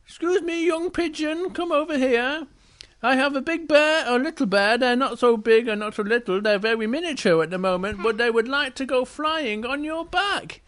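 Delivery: high, projecting princess voice; storybook princess. Acted. Princess calls the pigeon over, high and clear. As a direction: call out politely in a high voice. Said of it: "So the princess says".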